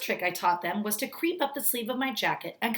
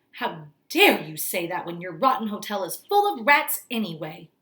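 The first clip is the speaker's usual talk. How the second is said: louder, outraged retort; indignant cry; 6 dB louder than usual. Acted. Grandmother scolding the hotel manager, indignant. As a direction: give it back with outrage. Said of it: "my grandmother cried".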